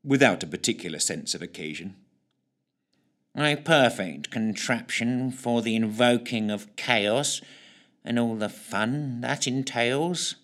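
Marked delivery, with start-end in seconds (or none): 3.3-10.4 slow, dull villain drawl; drab voice. Acted. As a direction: make the grand words sound dull. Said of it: "Snook's drab voice was so dull".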